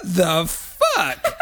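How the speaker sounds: drawn-out, laughing swear; stunned, amused curse; slow laughing curse. Retold or imitated. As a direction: let it crawl out slowly, half laughing. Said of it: "And I was like".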